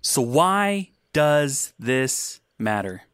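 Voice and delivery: slow, drawn-out pulpit delivery; preacher voice. Shown as a demonstration. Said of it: "give us a quick example of a real preacher voice".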